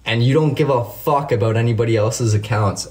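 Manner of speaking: worked-up, emphatic rant; indignant call-out. Real, not acted. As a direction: lay into him, hitting the insults. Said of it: "I'm gonna rant here for a second".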